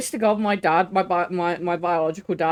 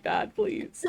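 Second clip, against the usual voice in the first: exasperated plea; 12 semitones higher, 7 dB quieter than usual. Retold or imitated. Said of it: "I'm gonna be like".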